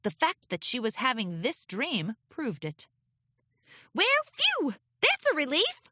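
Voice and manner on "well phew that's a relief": high relieved filly voice. Acted. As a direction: sigh out with relief. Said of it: "Apple Bloom seemed pleased".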